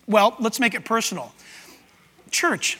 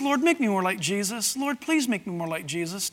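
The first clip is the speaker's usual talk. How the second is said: murmured prayer; 4 semitones lower, 9 dB quieter than usual. Retold or imitated. Quoting the congregation's everyday prayer.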